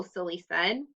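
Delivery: put-on clear, expressive read-aloud for children; story narration. A narrator's reading. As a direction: read the story to the class with lively voices. Teacher reads story aloud.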